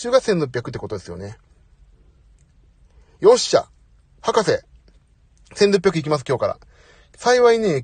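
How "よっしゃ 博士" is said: excited cheer. Real, not acted. Cheering after getting calorie target.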